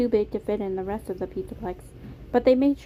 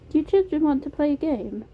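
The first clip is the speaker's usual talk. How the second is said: put-on higher, inviting British accent; Beam, British accent; 7 semitones higher, 5 dB louder than usual. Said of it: "It was a soft British accent".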